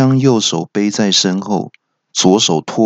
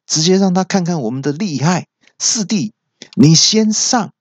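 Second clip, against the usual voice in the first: lightly voiced thug boss, climbing higher; a hint of a cocky gang boss; gang leader; 4 semitones higher than usual. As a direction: rouse the brothers, pitch rising toward the end. Gang leader rallies his men.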